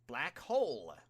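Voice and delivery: loud, high battle cry of the attack; shouted attack name. A narrator's reading. Hero yelling her attack at the villain, loud. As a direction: call out the attack name at full voice. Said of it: "the pro hero cried".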